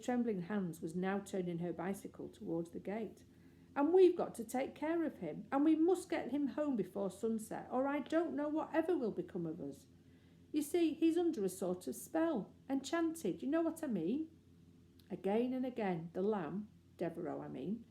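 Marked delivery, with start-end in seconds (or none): 3.7-14.3 high, eager explaining; earnest pleading. Acted. Jane eagerly explaining to the lady, high-pitched. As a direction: rush to make her understand.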